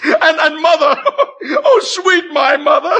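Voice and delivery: high, laughing mock recitation; mocking parody. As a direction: ham up his words to mock him.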